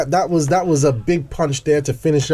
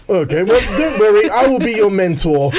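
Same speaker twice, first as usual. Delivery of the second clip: put-on posh English accent; 3 semitones higher, 3 dB louder than usual. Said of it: "a bit too posh for me".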